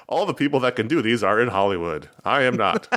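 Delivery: hammed-up fake American accent; bad American accent. Podcaster parodying British actors for his co-host, bad American accent. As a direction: imitate a Briton straining to sound American. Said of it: "You sounded very American there".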